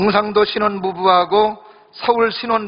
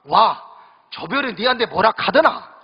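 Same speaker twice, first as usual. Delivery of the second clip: blunt Gyeongsang dialect husband; gruff teasing Gyeongsang groom brushing her off; 무뚝뚝한 경상도 신랑 말투. Retold or imitated. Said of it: "경상도 신랑이 하는 이야기가".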